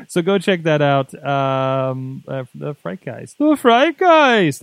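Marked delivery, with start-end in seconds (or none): 3.4-4.6 high, slow, booming ghostly voice; spooky voice. Acted. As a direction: stretch it out like a haunting. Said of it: "I can only say it that way".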